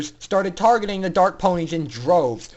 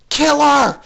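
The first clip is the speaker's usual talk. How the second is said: higher, loud murderous scream; furious scream; 8 semitones higher, 10 dB louder than usual. A narrator's reading. Rainbow Dash ordering her cronies, furious scream. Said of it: "she screamed at the other".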